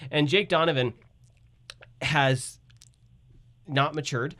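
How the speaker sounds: ordinary delivery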